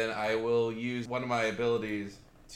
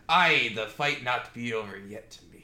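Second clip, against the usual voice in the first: lower, archaic warrior's brogue; rallying character voice; 4 semitones lower than usual. Acted. Player's warrior pats a fallen ally on the back, low rallying voice. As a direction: voice a hardy fighter urging a comrade on. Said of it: "pat him on the back and say".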